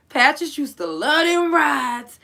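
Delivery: crying and slowed, voice straining high; tearful, slow. Real, not acted. Remembering a lost friend, slow tearful cry. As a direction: let the tears stretch the words out. Emotional memorial of dead friends.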